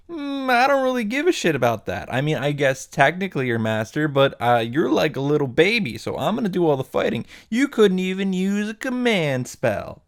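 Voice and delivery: high-pitched, lightly put-on brush-off; hammed-up snippy servant; mock dismissive servant. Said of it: "And then the guy's like".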